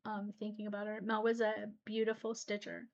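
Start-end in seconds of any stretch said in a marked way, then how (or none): 0.1-1.0 softer, getting teary over a lost friend; quiet, close to tears; teary-eyed. Real, not acted. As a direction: let the tears creep into the voice. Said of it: "a little teary-eyed".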